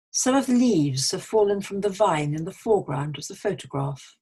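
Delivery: clearly articulated example sentence; teacher's deliberate read-aloud; model sentence reading. Shown as a demonstration. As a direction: read aloud carefully for learners. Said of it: "I'm going to read a few sentences".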